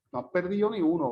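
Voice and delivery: "perdido" sin la última d, "perdío"; d desaparecida. Shown as a demonstration. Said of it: "cómo el sonido desaparece". ("perdido" con la d final caída: per-dí-o)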